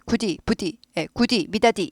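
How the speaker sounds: "굳이" as gudi, "미다디" with di; "굳이" said goo-dee, no j; hard North Korean forms. Shown as a demonstration. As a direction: keep d unsoftened in "굳이" and "미다디". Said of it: "북한은 마음이 안 부드러운지".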